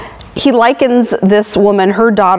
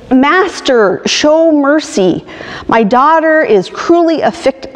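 higher-pitched, lightly acted plea; mild pleading; 5 semitones higher than usual. Canaanite woman begs Jesus for her daughter, mild pleading. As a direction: plead for mercy, raised but controlled. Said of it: "falls on her knees and pleads".

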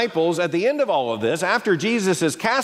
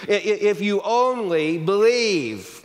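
slow, higher, drawn-out climax; name-it-claim-it urging; 4 semitones higher, slower than usual. Retold or imitated. Prosperity preacher closing the pitch on belief, slow and emphatic. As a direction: stretch out the promise. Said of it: "name it and claim it impulse".

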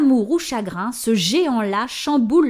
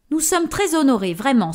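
higher, pushed-out voice; forced voice; 5 semitones higher, 3 dB louder than usual. Acted. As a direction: force the voice to be heard. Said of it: "en forçant la voix". (voix forcée)

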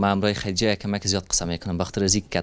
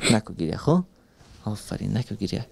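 soothing, dropping soft; gentle hushing; 3 dB quieter than usual. Real, not acted. Host asking the girl to stop crying, gently soothing.

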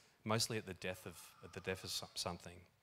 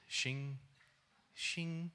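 sword noise; 5 semitones higher than usual. Retold or imitated. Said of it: "What's the sword noise?".

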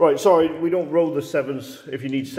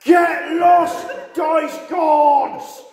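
higher, louder mock-angry shout; a real laughing shout at bad luck; shouting at dice; 11 semitones higher, 5 dB louder, much slower than usual. Real, not acted. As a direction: yell at the dice gods. Cursing the dice.

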